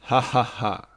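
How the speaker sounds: a loud, eerie ha ha ha; haunting mock laugh from the shadows; ghostly laugh. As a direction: let out a spooky throaty cackle. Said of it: "lachte eine gespenstische Kehle auf".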